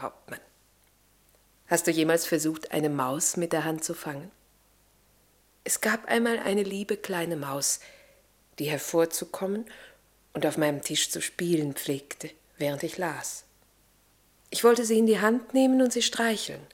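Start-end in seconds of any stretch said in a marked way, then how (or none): 5.6-11.7 tender storytelling. Acted.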